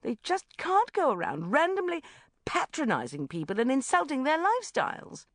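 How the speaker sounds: loud, high, building outrage; indignant rant. A narrator's reading. Sharon ranting to Bridget about the banker, indignant. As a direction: rant on, climbing to the final question.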